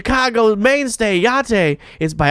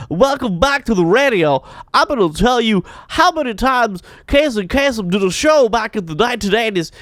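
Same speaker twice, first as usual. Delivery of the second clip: radio DJ voice; faster than usual. Retold or imitated. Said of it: "they're talking like".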